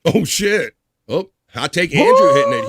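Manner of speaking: gleeful shocked outburst; shocked whoop. Real, not acted. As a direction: yelp it out in delighted shock. Reacting to hot take.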